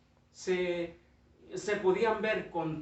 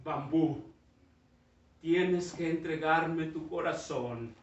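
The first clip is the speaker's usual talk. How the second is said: solemn master; slower than usual. Acted. Master solemnly asking the bamboo for its heart.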